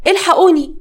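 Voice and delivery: half-acted shriek, eyes stinging; mock scream of pain. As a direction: cry out as if eyes burn. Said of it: "قعدت اصرخ".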